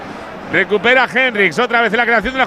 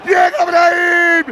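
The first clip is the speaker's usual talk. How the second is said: breakneck goal commentary; 7 semitones higher, slower than usual. Real, not acted. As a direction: call the replay at full voice. Goal replay, commentator shouting.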